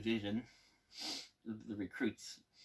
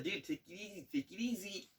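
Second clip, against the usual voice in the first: laughing plea; 7 semitones higher, 8 dB quieter than usual. Retold or imitated. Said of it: "He's like".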